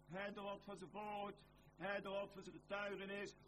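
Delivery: usual speaking voice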